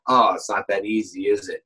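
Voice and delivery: low, knowing tease; teasing. Retold or imitated. Teasing nervous brother about acting, a low knowing jab. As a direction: needle him gently. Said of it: "I was like".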